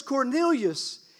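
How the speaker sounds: loud, slow call of the name; booming call. Acted. Angel calling Cornelius by name, loud and slow. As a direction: call his name out so it shakes him.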